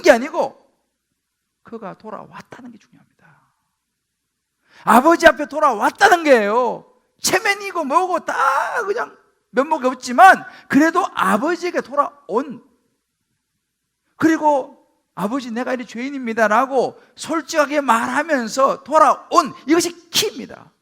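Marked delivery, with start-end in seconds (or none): 1.6-3.1 whisper. Real, not acted. Whispered key point. 4.8-20.7 loud, high impassioned preaching; fervent preaching. Real, not acted. Preacher urges the congregation, climbing to full force.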